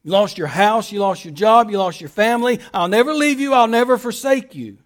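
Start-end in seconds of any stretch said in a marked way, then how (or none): 2.7-4.8 God's promise declared with force; louder promise. Acted. Preacher booming God's promise to a congregation that lost everything. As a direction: proclaim it boldly over their losses.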